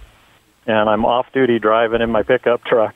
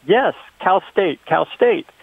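slow, high mock French-African accent; imitating a big accent; 7 semitones higher than usual. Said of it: "with a big accent".

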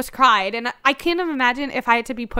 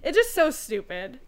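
laughing outrage; 6 semitones higher, 7 dB louder than usual. Real, not acted.

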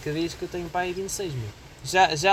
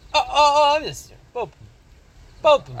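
high, loud, hammed-up whine at the start; teasing a friend as a whiny kid; mock whining teen; 11 semitones higher, 8 dB louder, slower than usual. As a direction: beg to be spared, overplayed. Mocking a whiny ID protest.

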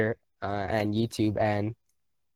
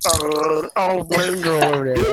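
mock excited; 4 semitones higher, 6 dB louder, slower than usual. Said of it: "we were like".

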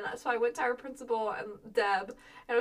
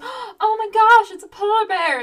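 excited gasp; 10 semitones higher, 13 dB louder than usual. Retold or imitated. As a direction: gasp and drag it out in awe. Retold gasp at polar bear.

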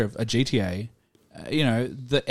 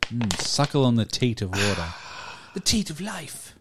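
mock sensual narrator; 4 dB quieter than usual. Hamming up the drinking.

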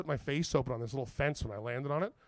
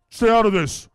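high, loud mock warning; loud "back off" to a bystander; retold shouted warning; 7 semitones higher, 12 dB louder than usual. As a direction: bellow it like a tough guy. Retold fighters warning him off.

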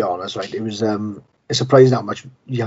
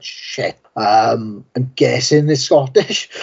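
confused American listener; much slower than usual. Retold or imitated. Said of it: "and it's like".

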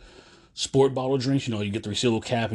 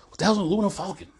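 lightly voiced, higher cartoon quote; Robot Chicken impression; 9 semitones higher, faster than usual. Quoting Robot Chicken to viewers, a light higher cartoon voice. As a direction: toss off a quick higher cartoon line. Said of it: "That's Robot Chicken coming out".

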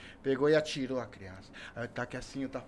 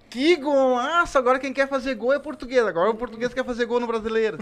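explosive goal commentary; 9 semitones higher, 7 dB louder than usual. Retold or imitated. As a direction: bellow it like a stadium announcer. Portuguese shouts goal, very loud. (narração explosiva de gol)

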